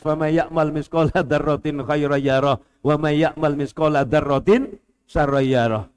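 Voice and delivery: membaca ayat dengan lagu tilawah. Acted. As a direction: lantunkan ayat pelan, mengalun. Recites Quran verse. (membacakan ayat Al-Qur'an kepada jamaah dengan lagu tilawah)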